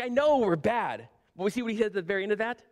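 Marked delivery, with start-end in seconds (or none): 0.0-1.1 slow, mildly incredulous admission. Retold or imitated. Habakkuk answering God about his people, incredulous. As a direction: concede it with a touch of disbelief. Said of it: "He's incredulous".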